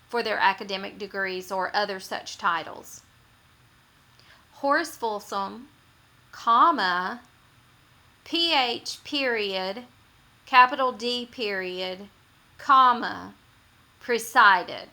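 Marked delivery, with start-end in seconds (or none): 4.5-14.9 reading out each punctuation mark; dictating. Shown as a demonstration. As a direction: spell out the commas and periods, loud and deliberate. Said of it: "this is when it's written out".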